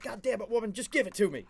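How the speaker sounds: high, loud surrender of a fed-up husband; retold exasperated yell. Husband heard from the other room, exasperated mock yell. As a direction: give in loudly, imitating his irritation. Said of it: "hear him from the other room".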